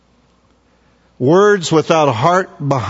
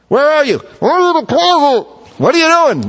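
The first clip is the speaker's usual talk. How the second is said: much higher, bright voices trading quick questions; playful mock dialogue; 10 semitones higher, faster than usual. Someone calling to a person praying in the closet, higher mock voices. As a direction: ham up a little caller and the one hiding.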